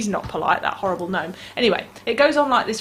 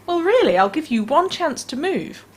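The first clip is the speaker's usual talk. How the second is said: witch warning; 7 semitones higher than usual. Acted. Witch threatening gnome.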